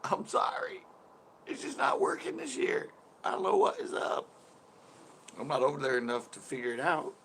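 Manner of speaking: high squeaky mock voice. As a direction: squeak it out apologetically. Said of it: "and I'm like".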